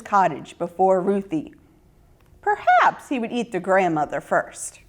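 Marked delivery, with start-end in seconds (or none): none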